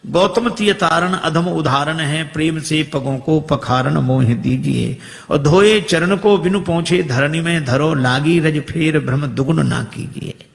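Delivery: recited devotional couplet; measured poetic recital; verse recitation. Acted. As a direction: declaim the kavitt.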